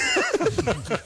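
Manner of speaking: bursting into a high-pitched laugh; real laugh at the quip; a quick high laugh that falls away. Real, not acted. Laughs at the joke.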